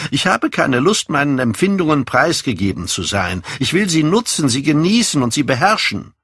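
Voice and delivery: put-on lively young man, pitch often lifted; lightly voiced, headstrong youth; self-possessed young man.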